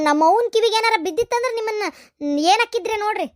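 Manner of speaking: angry warning. Acted. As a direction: warn her off sharply. Niece warning aunt.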